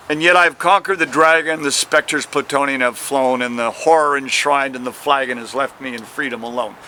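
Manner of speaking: reciting verse, easing down at the close; measured recital of old verse; poem recital. Acted. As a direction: read it like a poet at a reading. Quotes a line of his poem.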